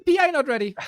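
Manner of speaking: high, loud flustered protest; flustered exclamation. Real, not acted. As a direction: caught off guard and protesting. Caught unprepared at game start.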